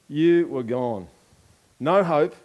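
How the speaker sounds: very slow, weighty "You were gone"; preacher stating a hard truth; slow solemn. Real, not acted. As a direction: let each word land slowly. Repeated slow declaration.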